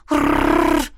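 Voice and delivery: mock rolled growl; playful growl. A narrator's reading. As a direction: growl it like a little beast. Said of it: "объясняешься междометиями". (игривое рычание)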